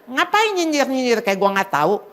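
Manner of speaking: acted-out touchy comeback, pushing the words out; mock confrontational challenge; retold attacking retort. Preacher acting out her old urge to hit back at sarcasm, mock combative. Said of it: "Udah rasanya kepengen nyerang aja".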